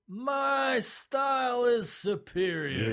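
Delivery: put-on cocky, high Spanish-accented boast; hammed-up arrogant Spanish accent; mock Spanish accent. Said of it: "But in a, in a Spanish accent".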